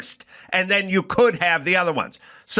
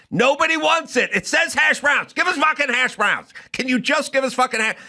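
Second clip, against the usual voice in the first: exasperated shout; 8 semitones higher than usual. Real, not acted. Comedian shouting about hash browns, high and fed up.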